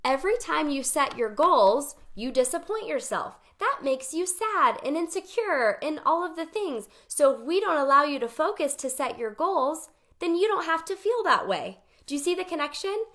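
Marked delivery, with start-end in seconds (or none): 0.0-11.8 voicing her brain. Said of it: "my brain... It said".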